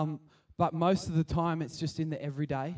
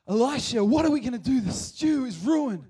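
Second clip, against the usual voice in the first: panicked plea; 8 semitones higher, 7 dB louder than usual. Retold or imitated. People crying out to Elisha about the ruined stew, panicky. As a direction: beg the prophet to save the ruined stew.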